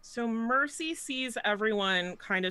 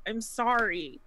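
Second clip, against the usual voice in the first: acted tearful apology, voice raised in pitch; mildly acted gasping apology; 4 semitones higher, slower than usual. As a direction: plead sorry as if gasping through tears. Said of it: "she's just gonna gasp".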